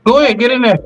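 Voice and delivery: hype-man excitement. Real, not acted. Welcoming Wally into the debate, high playful hype. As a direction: cheer your buddy on, teasing. Hyping up the co-host.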